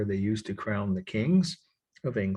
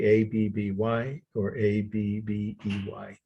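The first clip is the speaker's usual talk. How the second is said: letter by letter, unhurried; slow spelling; slower than usual. Shown as a demonstration. Lecturer giving students two accepted spellings, slowly. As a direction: spell it out slowly for note-takers. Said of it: "spell the words".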